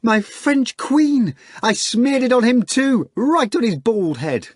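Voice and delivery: high, loud, slow and gleeful; screaming. Acted. Natasha screaming her news to Margarita, high and loud. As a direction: crow it at the top of the voice. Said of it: "rousing ... with her screaming".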